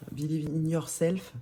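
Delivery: slow, self-mocking French-accented English. Shown as a demonstration. Reading the envelope slogan aloud to viewers, mock English accent. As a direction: read it out in a hammed-up English accent. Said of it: "Quel bel accent anglais".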